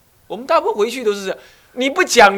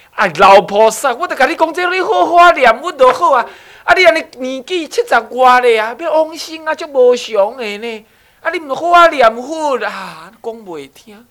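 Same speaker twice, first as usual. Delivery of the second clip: put-on higher, louder, lecturing an old parent; preachy nagging; 6 semitones higher, 7 dB louder than usual. Monk lecturing his elderly parents, hammed-up nagging tone. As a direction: scold them like a know-it-all monk. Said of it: "搞不好你自己就是这种口气".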